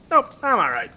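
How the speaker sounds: dad dodging the ride. Retold or imitated. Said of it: "and he'd be like".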